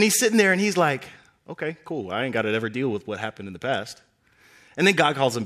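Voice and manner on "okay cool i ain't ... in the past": relieved, casual. Acted. Moses relieved after running away.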